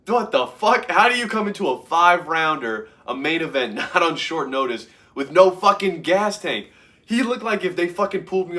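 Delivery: high, loud exasperated rant; incredulous at a tired fighter; outraged disbelief. Retold or imitated. Watching a fighter gas out, outraged disbelief.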